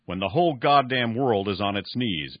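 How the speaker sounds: put-on a touch of anger pressing the old man; understated angry challenge; angry demand. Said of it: "Barney asked angrily".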